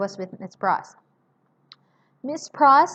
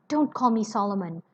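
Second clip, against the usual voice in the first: furtive, frightened; faster than usual. Acted. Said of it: "in a furtive, frightened way".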